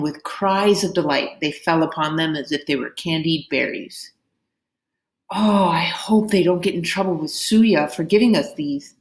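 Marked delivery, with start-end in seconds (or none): 5.3-9.0 appreciation. Acted. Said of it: "said Pinmai with appreciation".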